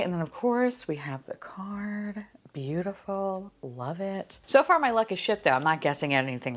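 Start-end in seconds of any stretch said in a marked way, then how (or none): 0.0-4.4 hushed unvoiced aside to the camera; a quick whispered aside. Real, not acted. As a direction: whisper it like a secret over the box. Aside while unboxing.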